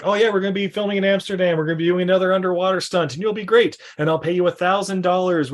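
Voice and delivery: quick, upbeat mock pitch; director's sales pitch. Director selling Lucky another underwater stunt, breezy. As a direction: rattle off the offer eagerly. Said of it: "he's like".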